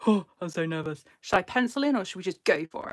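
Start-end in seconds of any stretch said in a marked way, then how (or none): none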